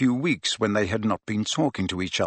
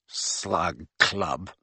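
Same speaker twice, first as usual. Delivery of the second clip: softer, scornful sneer on Slug Club; 5 semitones lower, 6 dB quieter than usual. Acted. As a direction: spit out Slug Club with contempt. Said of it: "with a sneer worthy of Malfoy".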